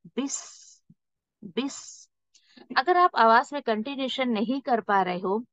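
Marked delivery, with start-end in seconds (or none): 0.1-2.1 बिस softer and breathy. Shown as a demonstration. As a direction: let the breath be felt on बिस. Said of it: "सांस feel करें आप अपने हाथों पर". (बिस को सांस के साथ)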